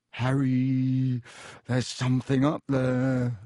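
hushed hoarse warning; uneasy, husky alert to a friend. A narrator's reading. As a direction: say it hoarsely, drawing out the name. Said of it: "said Ron hoarsely".

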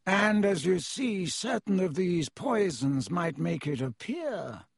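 slow, haughty nobleman; cold aristocrat. Acted. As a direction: explain with cool disdain. Malfoy voiced by reader.

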